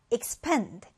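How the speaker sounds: "expand" stressed on -PAND; light ex-, strong -pand in "expand"; stress on second syllable. Shown as a demonstration. Teacher models the new word for learners, "expand" stressed at the end. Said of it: "이 단어 디딤절에 강세를 두고요".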